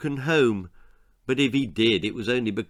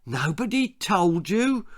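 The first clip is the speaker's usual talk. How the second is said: higher mocking echo of the shy boy; mocking mimicry; 7 semitones higher than usual. A narrator's reading. Bully mimicking the new boy, higher and mocking. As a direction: parrot his words back to mock him. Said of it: "mimicked Johnny".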